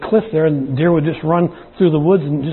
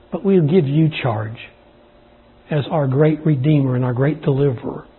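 earnest, measured pastoral prayer; public prayer. Real, not acted. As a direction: lead the congregation in prayer, pausing between phrases. Leads congregation in prayer.

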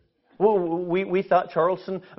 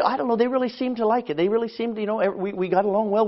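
unsure mumble; 7 dB quieter than usual. Retold or imitated. Unsure reply to pastor.

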